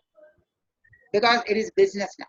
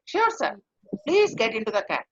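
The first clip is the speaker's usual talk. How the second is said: warm and friendly. Shown as a demonstration. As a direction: greet a new customer warmly. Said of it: "warm and friendly, over friendly".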